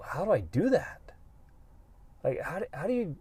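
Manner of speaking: soft unvoiced whisper of someone lost; whispered question. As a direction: breathe it like a confused secret. Voicing people's confusion.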